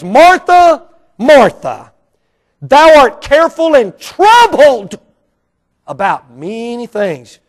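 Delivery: slowed, pointed rebuke of Martha; aggravated Jesus. Acted. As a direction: scold her with a touch of aggravation. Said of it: "a little aggravation".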